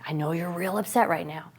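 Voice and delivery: put-on a parent calmly coaching an angry child; gentle coaxing. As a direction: soothe an upset child. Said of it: "that child tells you".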